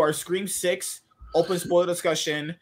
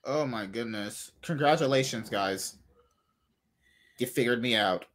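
sarcastic; 7 semitones lower, 4 dB quieter than usual. Real, not acted. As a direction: dryly concede with weary sarcasm. Sarcastic reply to being caught out.

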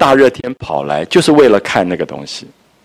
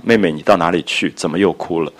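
tender; 3 semitones lower, 4 dB quieter than usual. Retold or imitated. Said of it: "宝玉的语言的温柔啊".

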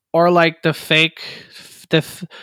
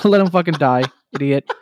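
mock gamer banter. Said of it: "It's like".

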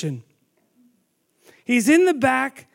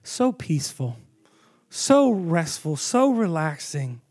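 tender hush; 4 semitones lower than usual. Retold or imitated. Parent gazing at a sleeping baby, tender and hushed. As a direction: murmur it like you're over a sleeping baby. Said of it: "And you're like".

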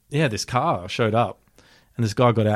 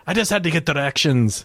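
higher-pitched innocent explanation; imitating oblivious driver; 6 semitones higher than usual. Driver returning to his frightened passenger, imitated high and innocent.

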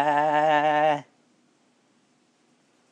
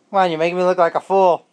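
mock exasperated; 4 semitones higher, 8 dB louder, faster than usual. Real, not acted. Joking frustration at silent baby.

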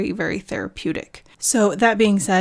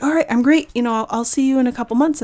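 higher, louder and quick, all breezy; breezy brush-off; 4 semitones higher, 5 dB louder, faster than usual. Retold or imitated. Telling her therapist she's fine, in a breezy higher voice. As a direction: toss it off like everything is fixed. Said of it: "And then I'm like".

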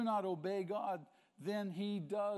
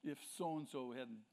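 mock hedging excuse; 4 semitones lower than usual. Mimicking someone blaming others.

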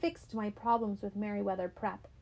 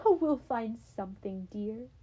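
sighing. Acted. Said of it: "my mother sighed".

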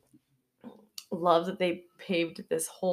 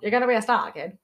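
put-on old radio announcer; faster than usual. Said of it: "the one that we do for our radio voice".

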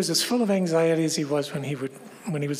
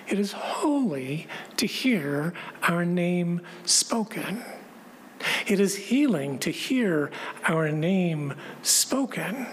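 reverent hush; slower than usual. Real, not acted. Reverent sermon reflection.

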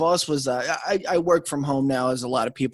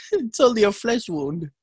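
Black Knight voice; 6 semitones higher than usual. Pretend. Monty Python quote.

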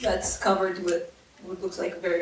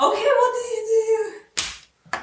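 mock Russian accent; 10 semitones higher than usual. DM repeats in a put-on voice.

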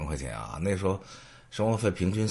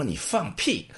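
retold scoff; 10 semitones higher, slower than usual. Guard scoffs at Tsinghua claim.

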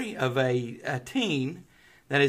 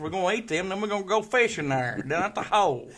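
higher-pitched, hammed-up Southern accent; 5 semitones higher, 4 dB louder than usual. Shown as a demonstration. Planning fishing for co-host's amusement, broad Southern accent. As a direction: ham up a country Southern accent. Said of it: "Do a Southern accent for us".

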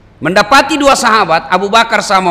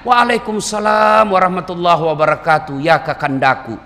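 devoted wife replying. Acted. Wife answers her husband, playfully tender. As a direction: answer lovingly, letting the pitch sink to the endearment. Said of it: "Dijawab oleh istrinya".

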